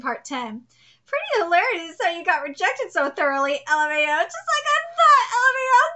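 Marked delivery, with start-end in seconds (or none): 4.2-5.8 mocking taunt. Mocking character reading.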